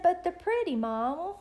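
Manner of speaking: lightly imitated little girl; retelling a child's protest; little girl's plea.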